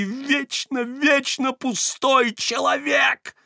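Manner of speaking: high, rising furious reproach; furious hiss. A narrator's reading. Varvara furiously reproaches Stepan, shaking his pillow. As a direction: hiss out your fury. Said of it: "шипела она своим яростным шёпотом".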